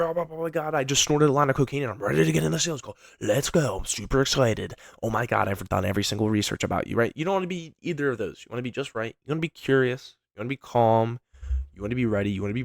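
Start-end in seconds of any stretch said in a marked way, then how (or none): 0.0-7.0 high-pitched, hyped, rushed gushing; bouncing off the walls like he's wired; overexcited. Shown as a demonstration. Coach mocking an overhyped salesperson on a call, hyper and fast. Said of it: "You don't wanna be too high up here".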